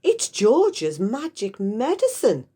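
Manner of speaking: Grandma shouting. Acted. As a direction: call it out proudly from up high. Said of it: "Grandma shouted".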